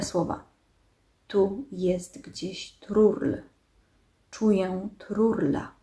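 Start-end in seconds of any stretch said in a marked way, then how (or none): 1.3-5.7 very slow, drawn-out machine voice; nasal steely honking. A narrator's reading. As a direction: honk it out slowly like a steel machine. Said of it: "nosowo brzmiące, do stalowego gęgania podobne".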